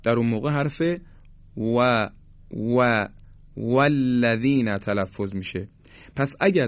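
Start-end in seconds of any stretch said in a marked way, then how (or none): 1.6-4.8 «و» said as a W with lips pursed, no teeth; careful, separated demo of W in «والذین»; rounded-lip W. Shown as a demonstration. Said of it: "فقط لبها رو جمع بکنیم".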